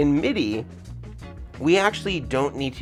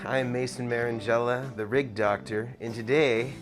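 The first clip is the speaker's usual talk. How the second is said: muffled through an N95 mask; talking through a mask; through a face mask. Real, not acted. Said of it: "an N ninety-five mask".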